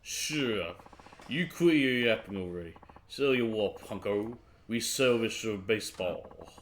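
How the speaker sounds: drunken slurring, hammed up. Drinker tells his buddy off for yapping, drunk. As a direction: slur it like a cranky drunk. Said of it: "especially seeing how drunk you are".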